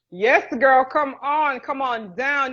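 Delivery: excited invitation. Real, not acted. Inviting a viewer to marry in her kitchen, excited.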